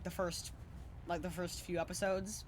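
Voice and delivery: hiccuping mid-sentence; words broken by hiccups. Real, not acted. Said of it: "sorry, I got the hiccups".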